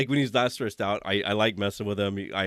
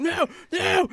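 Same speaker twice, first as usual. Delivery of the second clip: put-on high, loud childish whine; whiny little kid; 5 dB louder than usual. Grown coworker whining like a little kid, childish whine. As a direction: whine it like a toddler. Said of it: "like a little kid".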